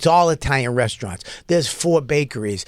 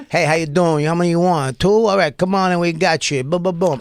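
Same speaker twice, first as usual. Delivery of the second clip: Italian-American restaurant patter. Retold or imitated. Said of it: "it's Italian people".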